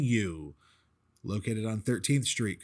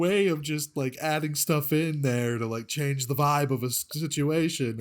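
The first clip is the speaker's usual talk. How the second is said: mock compliment; 5 semitones higher than usual. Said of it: "You were like".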